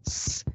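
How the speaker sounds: "s" sola, como silbido sostenido; sonido S aislado. Shown as a demonstration. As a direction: pronuncia solo el sonido "s", sin vocal. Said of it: "por ejemplo la S". (sonido "s" alargado y sordo)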